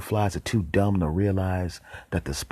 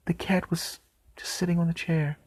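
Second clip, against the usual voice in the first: whispered reveal; 10 semitones higher, 4 dB quieter than usual. Real, not acted. Reveal about the cat.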